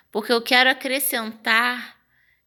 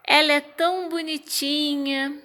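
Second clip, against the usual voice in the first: higher, sugary ironic praise; mock praise; 6 semitones higher than usual. Shown as a demonstration. Teacher giving an example of irony to her class, mocking sweetness. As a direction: say the compliment but mean the opposite. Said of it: "quando eu queria dizer que ela é feia".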